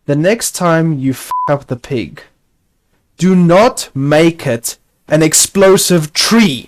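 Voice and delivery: slow, spaced-out rebuke; exasperated scolding. Real, not acted. Player scolding Notch over an explosive tree, exasperated. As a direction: scold word by word, leaning hard on each. Scolding the game's maker after mishap.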